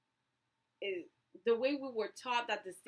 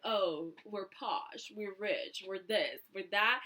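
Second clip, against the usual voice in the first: mock posh snobbery; 3 semitones lower, slower than usual. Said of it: "not like".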